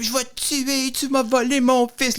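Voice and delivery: high-pitched movie threat; angry. Retold or imitated. Acted threat from the film.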